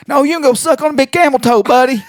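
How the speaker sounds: mock raging old man; angry yell. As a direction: shout him off the phone. Quoting angry Mackey.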